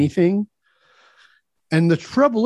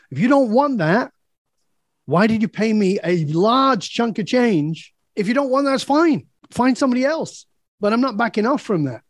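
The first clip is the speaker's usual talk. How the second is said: emphatic challenge; 5 semitones higher than usual. Retold or imitated. Confronting client, retold.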